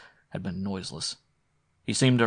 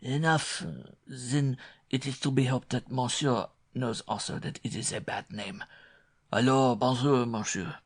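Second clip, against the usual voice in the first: cold, higher French countryman voice; coldly; 4 semitones higher than usual. A narrator's reading. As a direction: dismiss him coldly. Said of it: "and said coldly".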